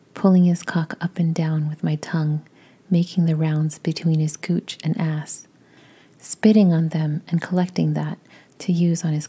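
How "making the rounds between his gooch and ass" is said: ordinary delivery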